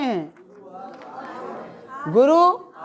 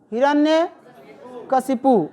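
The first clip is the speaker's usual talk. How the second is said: हिरण्यकशिपु spelled out slowly, each syllable clear; drawn-out dictation of हिरण्यकशिपु; much slower than usual. Shown as a demonstration. (धीरे-धीरे उच्चारण)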